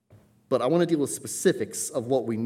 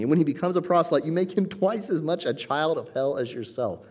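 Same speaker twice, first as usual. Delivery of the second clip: raised-pitch denunciation from the pulpit; emphatic, high-voiced scripture rebuke; scathing rebuke; 4 semitones higher than usual. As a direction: drive the condemnation home. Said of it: "it is a scathing chapter of rebuke".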